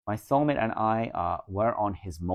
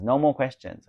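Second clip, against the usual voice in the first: higher and louder, fed up; exasperated no more questions; exasperated insistence; 5 semitones higher, 6 dB louder than usual. Real, not acted. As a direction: cut the questions off sharply. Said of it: "Oh my God, still questions".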